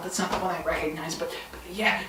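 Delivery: soft, fast whisper.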